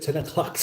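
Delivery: "o'clock" said as "o'clack"; mimicked o'clock. Host reading chat's question about ten o'clock, mimicked pronunciation. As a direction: read it out with his "clack" in "o'clock". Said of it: "he must speak like that".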